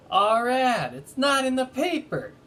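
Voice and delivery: high, loud and distressed; a lightly voiced dismayed woman; upset. A narrator's reading. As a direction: balloonist upset that her ad is missing, high and pained. Upset balloonist finds missing ad.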